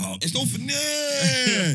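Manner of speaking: high laughing protest, slow; amused denial through laughter. Real, not acted. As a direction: laugh it off, stretching the words. Laughing denial after friend's joke.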